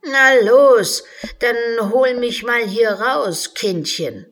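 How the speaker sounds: loud, high, bossy order; bossy unicorn. Acted. The unicorn orders Alice to pull it out, bossy. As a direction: impatiently boss the child around.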